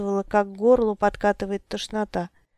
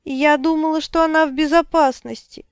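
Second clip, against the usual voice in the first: desperate cry; 6 semitones higher, 4 dB louder than usual. A narrator's reading. Abby desperate over kidnapped girl.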